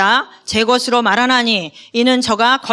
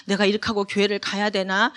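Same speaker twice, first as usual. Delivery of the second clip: much softer, small doubting voice; shrunken self-doubt; 3 semitones lower, 7 dB quieter than usual. Retold or imitated. Preacher voicing a guilty believer, softer and hesitant. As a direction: mumble it like someone cowed and ashamed. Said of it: "위축되고 쭈그러들고".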